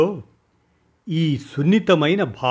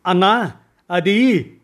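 slow, high, louder hesitation; hesitant slow start; 6 semitones higher, 5 dB louder, slower than usual. Acted. Young man slowly begins to answer his boss, halting and drawn out. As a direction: drag the words out nervously. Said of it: "నిదానంగా చెప్పబోతుంటే".

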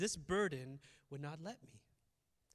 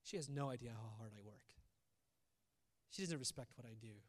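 low, soft muttered complaint; resentful husband muttering, lower and softer; quiet grumble; 7 semitones lower, 7 dB quieter than usual. Retold or imitated. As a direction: grumble it half to yourself. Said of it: "I quietly grumble and say".

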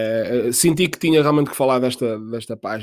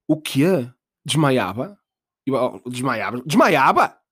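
mock disbelief; much slower than usual. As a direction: gasp it out as if about to faint. Dramatic disbelief at fainting.

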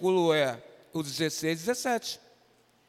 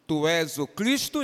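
quoting Peter; 4 dB louder than usual. Retold or imitated. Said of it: "Pedro fala assim".

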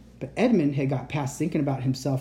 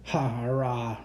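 lion roar; 2 semitones lower, slower than usual. A narrator's reading. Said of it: "roared Aslan".

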